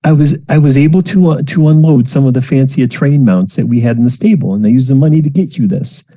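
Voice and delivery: lightly voiced mother; doting mom. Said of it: "It's like".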